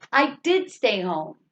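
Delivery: emphasize the word "did"; "did" stands out from the rest; stress on "did". Shown as a demonstration. Teacher recalling an earlier stress example, emphasis on "did". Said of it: "like what we did with did".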